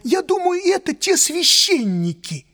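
high excited waiter babble; rapid chattering. Acted. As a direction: gabble it out, words tumbling. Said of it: "затараторил он".

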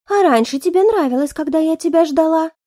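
high, pouty sulking voice; pouting blonde. Acted. Blonde pouts at Alex, high and sulky. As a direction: pout the words like a spoiled girl. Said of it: "состроила обиженную гримасу и надула губки".

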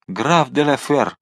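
slow, drawn-out call of a name; slow exclamation. Acted. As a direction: call the count's name out slowly. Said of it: "воскликнул Мордаунд". (медленный протяжный возглас)

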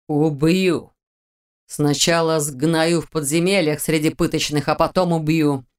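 cold, menacing death threat; icy tone. Acted. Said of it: "ледяным тоном произнёс Нэш".

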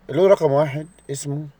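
ordinary delivery

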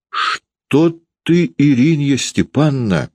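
high, alarmed protest; trembling voice. A narrator's reading. Varvara facing the raging landlady, trembling high-pitched plea. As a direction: plead nervously, pitched right up. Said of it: "дрожащим голосом говорила Варвара".

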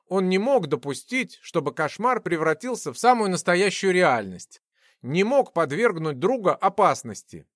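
plain reading voice

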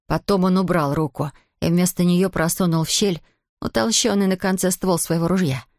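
usual speaking voice

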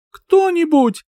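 high, loud call. Acted. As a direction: shout for anyone to come. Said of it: "крикнула".

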